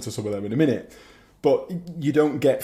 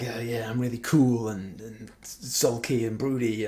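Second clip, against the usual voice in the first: mock broody; 6 dB quieter than usual. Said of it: "when you get that whole, like".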